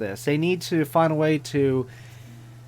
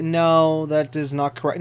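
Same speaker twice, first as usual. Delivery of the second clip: calm. Retold or imitated. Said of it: "said it nice and calmly".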